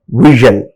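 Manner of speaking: "vision" with a strong first syllable; stress on second-last syllable. Shown as a demonstration. Teacher giving a suffix example, "vision" stressed before the ending. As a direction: punch the "vi-" of "vision". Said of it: "second syllable to be stressed".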